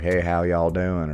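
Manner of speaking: slow, lightly put-on Southern accent. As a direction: stretch it into an easy Southern greeting. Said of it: "like, a Southern accent or something".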